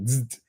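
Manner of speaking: short buzzing zap sound; imitated buzz. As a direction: make a little electric zzz.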